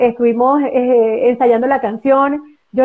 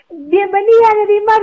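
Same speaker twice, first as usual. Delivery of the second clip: welcoming announcement; 7 semitones higher than usual. Retold or imitated. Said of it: "Cuando ella dice".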